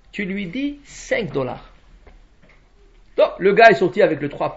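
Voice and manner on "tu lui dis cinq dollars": a slow, much softer "cinq dollars", like a secret; conspiratorial slow hush; hushed aside. Acted. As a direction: drop the voice and slow down, as if only the servant should hear. Master's secret instruction to servant.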